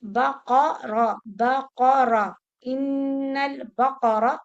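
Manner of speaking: loud "बकरा" as ba-qa-ra, no qalqala; correct बकरा. Shown as a demonstration. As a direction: open the काफ with its vowel. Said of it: "no कलकला".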